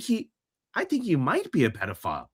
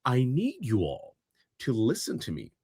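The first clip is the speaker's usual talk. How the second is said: retold mom. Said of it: "So the mom says".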